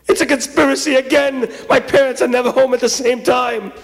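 high-pitched wail of protest; hammed-up dismay; indignant despair. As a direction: rail against a plot. Boy despairs at parents home.

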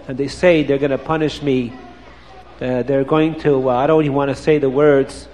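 put-on low, sorrowful boy's voice; a condemned boy, barely able to say it; sad. Prisoner boy tells his fate.

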